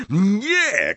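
high-pitched cry of command; shouted no. A narrator's reading. Snape stopping Harry's torment, shouting. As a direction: cry out to stop it. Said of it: "krzyknął Snape".

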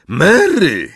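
high, loud call of a name; urgent high cry. A narrator's reading. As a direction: shout for your wife across a hall. Husband calls out to wife.

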